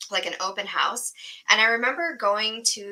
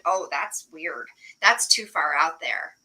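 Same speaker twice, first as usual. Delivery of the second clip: lower, slow mock dismissal; dismissive boss; 5 semitones lower, slower than usual. Mocking corporate bosses rejecting innovation, lower dismissive tone. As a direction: imitate a sniffy boss brushing it off.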